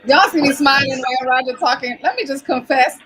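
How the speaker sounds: holding back laughter; fighting a grin while talking; trying not to smile. Real, not acted. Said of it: "trying to keep a straight face".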